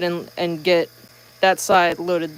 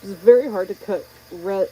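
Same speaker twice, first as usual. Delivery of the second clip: muffled through a face shield; talking into a face shield; behind face shield; 4 dB louder than usual. Real, not acted. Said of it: "sorry, I'm talking into the face shield".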